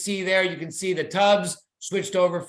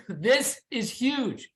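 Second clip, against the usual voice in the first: worked up; 4 semitones higher, much slower than usual. Real, not acted. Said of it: "I'm getting too worked up".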